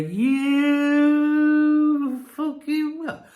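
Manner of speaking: high, very slow venomous line; drawn-out furious retort. Retold or imitated. Vlogger imagining telling off a friend, slow furious retort. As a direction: stretch every word out in fury. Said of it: "I want to turn around and go".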